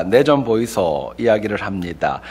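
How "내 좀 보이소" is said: slow, lightly voiced Gyeongsang dialect; 느린 경상도 사투리. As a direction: drawl it slowly in a mild Gyeongsang dialect. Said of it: "경상도 사람들은 그렇게 한다고 합니다".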